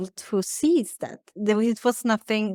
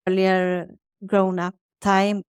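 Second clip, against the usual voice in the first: ordinary talk, nothing marked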